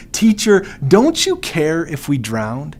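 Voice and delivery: frightened disciple shouting over the storm; high, loud desperate plea; panicked cry. Acted. Panicked disciple begging Jesus for help in the storm.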